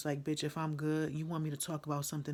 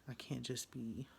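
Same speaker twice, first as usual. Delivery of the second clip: whisper to herself; 6 dB quieter, slower than usual. Real, not acted. Trailing off to herself.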